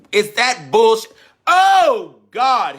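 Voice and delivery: high, loud preacher's outburst; outraged cry. Real, not acted. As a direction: burst out in a high shout. Outraged at the textbook story.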